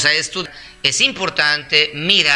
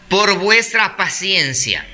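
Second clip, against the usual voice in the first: verse fragment read slowly and deliberately; measured scripture reading; slow, calm reading; slower than usual. Real, not acted. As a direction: spell out the phrase unhurriedly. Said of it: "es leerlo despacio, calmado".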